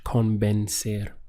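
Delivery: convencer said slowly with an E sound, ben-SER; Spanish pronunciation. Shown as a demonstration. Teacher modelling convencer slowly for students. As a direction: stretch convencer out, vowel E clear. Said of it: "this changes into an E sound in Spanish".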